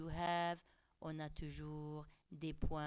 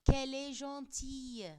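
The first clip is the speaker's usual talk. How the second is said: bright exclaiming lift, higher and louder; exclamative example; 8 semitones higher, 9 dB louder than usual. Shown as a demonstration. Teacher showing an exclamation to the class, exclaiming. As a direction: gush it like real delight. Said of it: "un point d'exclamation".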